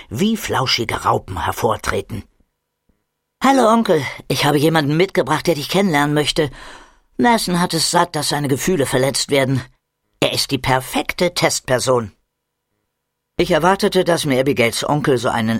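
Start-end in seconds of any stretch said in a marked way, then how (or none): 3.4-12.1 put-on a girl proudly presenting her friend; bright girl voice. Abigail voiced in story. (Abigail stellt ihren Freund stolz dem Onkel vor, eifrig)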